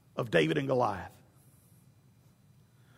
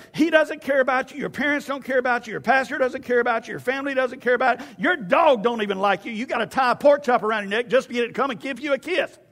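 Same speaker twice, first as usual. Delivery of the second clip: trash talk; 4 semitones higher than usual. Retold or imitated. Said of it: "He'll trash talk you and say".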